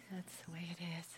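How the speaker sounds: croaky hoarse voice; creaky starts. Real, not acted. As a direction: talk through a croaky throat. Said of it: "I apologize for my croaky voice".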